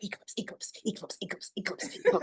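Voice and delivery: whispered eclipse repeated, rising to a high squeak; mocking eclipse chant; teasing repeats. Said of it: "So I was like".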